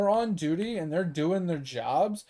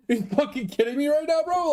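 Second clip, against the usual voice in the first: exasperated disbelief; 9 semitones higher than usual. Retold or imitated. Disbelief at cop's question.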